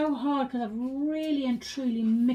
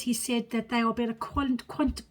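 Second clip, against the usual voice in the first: stumbling over loose dentures; words slurred by slipping false teeth; 4 dB quieter than usual. Real, not acted. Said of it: "I'll put my teeth back in".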